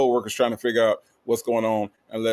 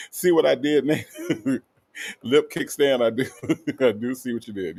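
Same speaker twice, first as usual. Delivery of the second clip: laughing between phrases; amused chuckling. Real, not acted. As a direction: chuckle your way through it. Chuckles at a viewer's name joke.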